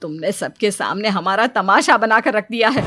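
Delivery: lightly voiced stern, angry husband; reproachful husband. Husband rebuking wife for complaining in public, reproachful. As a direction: scold with mild exasperation.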